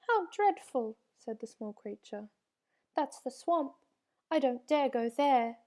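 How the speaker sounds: high, loud scared little voice; frightened creature. A narrator's reading. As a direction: shrink back in fear.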